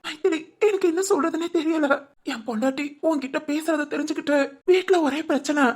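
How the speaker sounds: put-on pitiful. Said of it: "முகத்தை பாவம் போல வச்சுக்கோ". (பாவம் போல நடிக்கும் குரல்)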